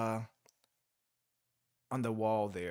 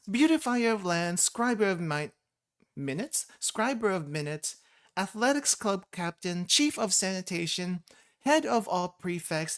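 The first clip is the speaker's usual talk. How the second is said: a lightly voiced proud herald, higher; grand herald; 5 semitones higher than usual. Streamer reading the herald announcing the president, lightly pompous. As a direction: announce the titles with lifted pomp. Reads character dialogue.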